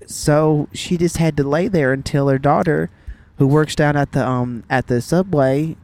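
lightly imitated Southern mom telling news; matter-of-fact Southern storytelling; Southern accent. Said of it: "saying this in a Southern accent".

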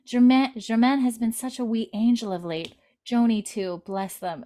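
lightly voiced Scottish maid, fond; Scottish accent. Sister recapping Lizzie's farewell, light Scottish accent. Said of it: "Lizzie's like".

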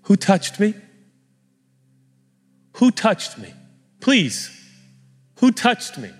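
high, light, searching appeal; eager, pleading Jesus. Acted. Jesus searching for whoever touched him, pleading eagerly. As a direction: ask it high and imploring, with pauses between. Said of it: "this is how I hear the tone of Jesus".

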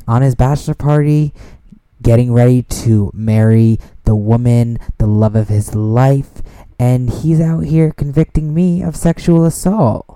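indignant. Real, not acted. Indignant rant.

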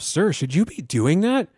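mock dispatcher voice. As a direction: play the doubtful dispatcher. Dispatcher quoted, higher.

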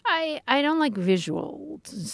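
breathy sultry audio-story voice; husky seductive storyteller; Dipsea voice. Pretend. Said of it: "this is my Dipsea voice".

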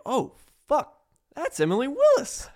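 high, loud gasp of recognition in words; mock starstruck outburst; retold excited surprise. Retelling spotting a porn star.

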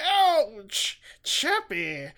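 hammed-up creature yelp, then the name; loud, high yelp melting into a silly robot name; mock-amorous puppet creature voice; Skeksis making out. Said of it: "sounds like when they're making out".

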